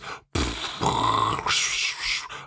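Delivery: explosion sound effect. Retold or imitated. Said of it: "can you spell that sound effect".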